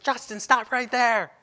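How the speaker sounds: high, slow shouted command. Retold or imitated. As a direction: stop him from across the playground. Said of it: "And so I yelled even louder".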